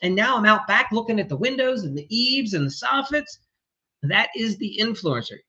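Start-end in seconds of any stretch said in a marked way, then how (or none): 0.0-3.4 overwhelmed contractor. Retold or imitated. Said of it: "your head's going like".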